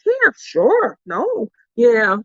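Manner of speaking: lightly voiced eager agreement; imitating agreeable friends. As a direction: mimic easygoing yes. Retelling everyone agreeing.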